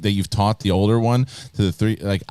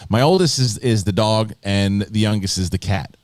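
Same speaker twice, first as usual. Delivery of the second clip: ordinary delivery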